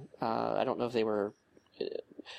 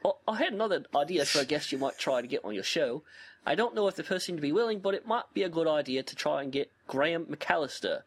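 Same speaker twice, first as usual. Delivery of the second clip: put-on British accent; 5 semitones higher than usual. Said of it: "You gotta do the Alien Jesus voice".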